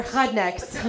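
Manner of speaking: "rednecks" with a throaty H for R; foreign pronunciation. Retold or imitated. Mom realizing the insult, "rednecks" in grandma's accent. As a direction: say "rednecks" as "hudnecks". Repeats grandma's mispronounced word.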